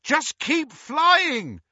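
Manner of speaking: high, loud shout to the driver; shouted back. A narrator's reading. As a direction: shout it urgently, stretching the last words. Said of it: "Harry shouted back".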